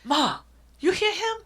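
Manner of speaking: high whispered tattling aside; a little girl whispering to mom; imitating her daughter. Mother imitating daughter tattling, high and whispered. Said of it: "Oh, she'll even go".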